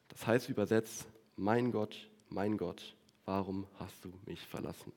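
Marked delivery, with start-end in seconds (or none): 1.4-4.9 fading anguished cry. Retold or imitated. Jesus' cry from the cross.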